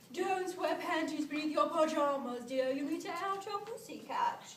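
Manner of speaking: imitating a mother's admonition, rather loud; mother's advice. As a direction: play a mother lecturing her daughter. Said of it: "her mother used to tell her".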